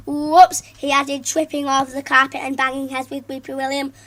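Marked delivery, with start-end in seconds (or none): 0.1-0.6 loud fake-innocent whoops; mock whoops. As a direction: pretend it's an accident. Fake clumsy stumble.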